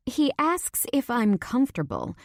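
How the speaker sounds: high, incredulous exclamation; mock exclamation. A narrator's reading. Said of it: "I look up at the sky exclaiming".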